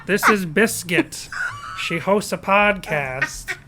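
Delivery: a hint of David Lynch with a Midwest accent, unhurried; terrible David Lynch impression. Co-host mimics David Lynch naming her Biscuit, in a lightly done Lynch voice. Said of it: "We both do terrible David Lynch impressions".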